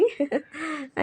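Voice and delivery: short, quiet laugh; soft chuckle. Real, not acted. Vlogger showing viewers the fruit she gathers, soft chuckle.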